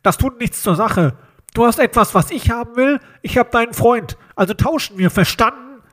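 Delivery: menacing phone caller disguising his voice; disguised nose-pinched voice. A narrator's reading. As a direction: talk as if holding your nose. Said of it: "als würde jemand die Stimme verstellen".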